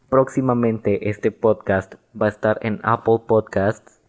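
"próximamente este podcast va a estar en Apple Podcasts" said slow and deliberate, every word clear; a podcaster redoing a flubbed promo line, slow and careful; careful retake. Shown as a demonstration. Telling listeners about Apple Podcasts, carefully enunciated. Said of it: "ahora sí lo dije bien".

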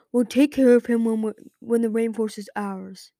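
threatening unvoiced hiss; hissed whisper. A narrator's reading. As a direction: hiss it under the breath. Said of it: "hissed Strong Wings".

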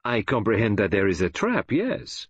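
put-on gentle Belgian-accented concession; Poirot. Detective calmly answers the gloating gunman, gently. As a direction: concede it gently, lifting the last word. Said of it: "said Poirot gently".

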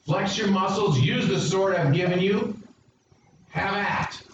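high, urgent battle cry from God; God rallying his people, high and urgent; rousing call to action. Acted. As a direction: stir them up to fight. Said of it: "There are times when the Lord says".

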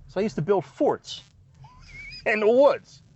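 chuckling out the punchline; the answer half swallowed by laughter; laughing through it. Real, not acted. Telling the permit office about his experience, laughing.

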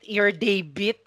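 "debit" said as "DEH-bit", rising; tentative "deh-bit" for "debit"; retry at debit. Retold or imitated. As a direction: say "debit" with eh first, testing it. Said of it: "naka-apat na beses siyang mali".

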